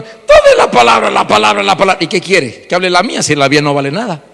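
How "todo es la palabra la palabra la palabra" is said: a hint of a believer chanting la palabra; lightly mock the ones who only repeat la palabra; mock repetitive believer. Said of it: "Y dicen algunos". (imitación burlona de un creyente que repite la palabra)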